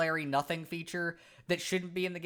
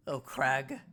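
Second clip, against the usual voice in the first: caveman Cragnon voice; 4 semitones lower than usual. Acted. Scared Cragnon hiding from the Floro Sapiens, blunt caveman voice. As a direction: bark it out like a dim, eager caveman.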